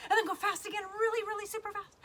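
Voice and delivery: high, excited urging; playful speeding up. Pretend. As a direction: pitch it up to get kids flapping fast. Voice mimics fast flapping.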